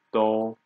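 teacher's level-tone demo of do; first tone. Shown as a demonstration. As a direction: do held on a level pitch. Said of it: "first tone".

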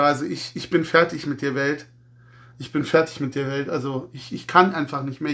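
a touch of fake world-weariness; mock despair. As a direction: play the defeated fan, deflated. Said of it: "ironische, sarkastische Nummer".

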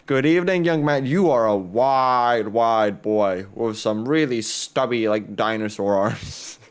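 hint of a polite old clerk, slowing on wide, wide boy; shopkeeper NPC voice. Gamer voicing the laundromat clerk greeting a customer, lightly put-on.

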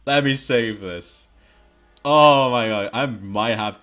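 loud and slow, in panic; panicked yelling. Real, not acted. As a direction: shout it while panicking.

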